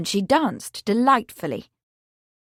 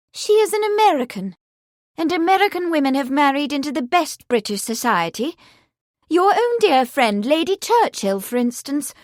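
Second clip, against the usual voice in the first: higher, brisk sister arguing; Eleanor; 5 semitones higher, 4 dB louder than usual. Acted. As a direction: reason with mother firmly. Sister argues with mother.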